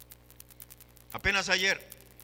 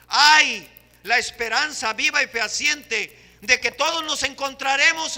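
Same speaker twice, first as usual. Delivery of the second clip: preaching proclamation; 2 semitones higher, 6 dB louder than usual. Real, not acted. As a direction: declare it to the whole church.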